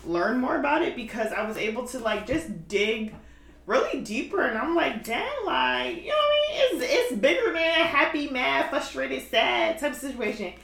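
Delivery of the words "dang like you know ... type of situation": high-pitched, wowed retelling of a discovery; amazed reaction. Retold or imitated. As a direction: voice leaps up in half-laughing amazement. Retells her reaction to digging deeper.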